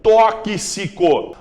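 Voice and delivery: Tóxico drawn out slowly; slow spelled-out word. Shown as a demonstration. Teacher to students, drawing out Tóxico slowly. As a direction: stretch Tóxico for the class.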